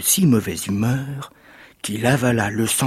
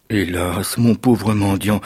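saddened; 2 semitones lower, slower than usual. Acted. Giant's wife pities the disguised beggar, mildly saddened. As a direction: answer with a touch of regret. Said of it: "répondit la femme attristée".

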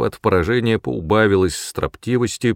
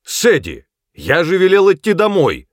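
high, loud furious yell at his daughter; father yelling angrily at Saddie; angry shout; 10 semitones higher, 6 dB louder than usual. A narrator's reading. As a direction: bellow at her for disobeying. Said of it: "сердито закричал Джек".

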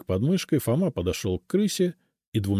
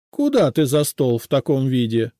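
angry scolding; 4 semitones higher, 6 dB louder than usual. A narrator's reading. Housekeeper scolds costumed house spirit.

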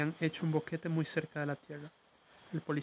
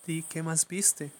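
mother's order; much slower than usual. Acted. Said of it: "le ordenó su madre".

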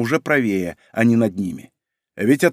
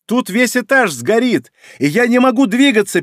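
shouting over fire; 6 semitones higher, 4 dB louder than usual. Acted. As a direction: shout over the roar of flames. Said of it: "перекрикивал гул разошедшегося пламени".

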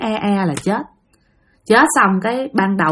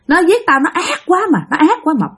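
high-pitched, aggrieved spirit; shrill unseen woman refusing to forgive; piercing ghost voice; 7 semitones higher than usual. Acted. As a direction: cry out the grievance high and ringing. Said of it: "nghe cái tiếng lanh lảnh".

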